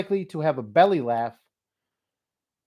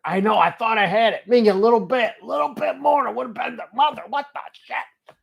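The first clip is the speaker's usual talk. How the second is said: frustrated outburst; 7 semitones higher, 4 dB louder than usual. Real, not acted. Reacts to failure.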